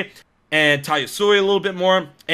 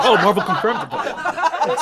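mock crowd excitement; 7 semitones higher, slower than usual. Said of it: "all people were like".

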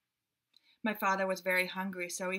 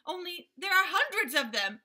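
much higher, chattering monkey voices; little monkeys; 9 semitones higher, 5 dB louder than usual. A narrator's reading. Monkeys reassuring the gorilla in high squeaky voices. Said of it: "said the six little monkeys".

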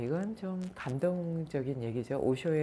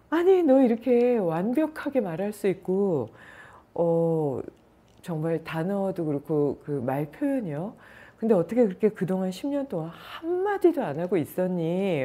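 astonished mother; 4 semitones higher, 5 dB louder than usual. Retold or imitated. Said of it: "하면서 막 어머니가 펑펑 울고".

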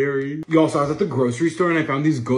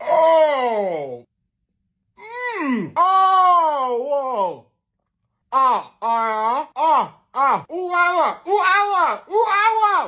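pained shrieks and gasps; 14 semitones higher, 7 dB louder, much slower than usual. Real, not acted. Overwhelmed by spice.

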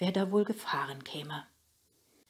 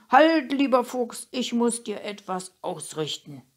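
shouted plea; 6 semitones higher, 8 dB louder than usual. A narrator's reading. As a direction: call out to hold the fox off. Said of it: "hat Emma geschrien".

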